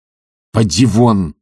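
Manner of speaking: slow menacing order to leave. A narrator's reading. Master dismissing his servant, a slow menacing order. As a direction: throw the servant out, slowly and threateningly. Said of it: "прибавил он грозно".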